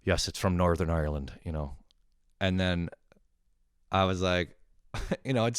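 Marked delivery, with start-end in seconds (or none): 0.0-1.3 put-on light Northern Irish accent; imitated Northern Irish accent. Northern Irish caller explaining his accent, lightly imitated. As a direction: answer with a touch of Northern Irish. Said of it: "And he's like".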